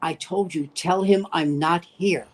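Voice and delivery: understated impression, slowing on the second phrase; Terry Melcher. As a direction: lightly imitate a man refusing a visitor. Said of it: "here's my impression of Terry Melcher".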